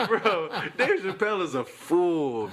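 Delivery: high and slow through laughter; laughing. Real, not acted. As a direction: crack up as you say it. Cracking up at the joke.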